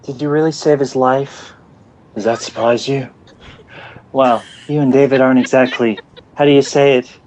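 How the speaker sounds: lightly acted TV drama dialogue; Emma and Hook impression. Shown as a demonstration. Podcaster performing a scene on request, lightly acted impression. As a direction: play out the exchange as an impression. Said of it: "like Emma says it".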